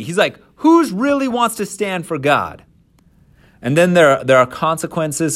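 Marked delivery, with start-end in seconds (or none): 0.6-2.6 high-pitched rallying call; rally the camp to take a stand; Moses calling out. Acted. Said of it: "he yells out".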